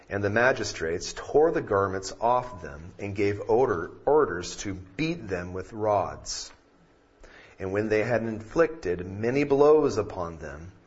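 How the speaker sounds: measured Bible reading; scripture reading. Acted. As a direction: read the passage with gravity. Reads scripture aloud.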